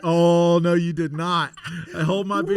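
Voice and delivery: rising to the challenge, pumped; fired-up defiance. Retold or imitated. Answering the instructor's doubt with a loud, cocky comeback. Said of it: "And I was like".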